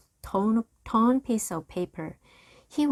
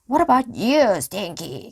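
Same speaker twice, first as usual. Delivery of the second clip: roared; 4 semitones higher, 6 dB louder than usual. A narrator's reading. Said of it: "Captain Bones roared".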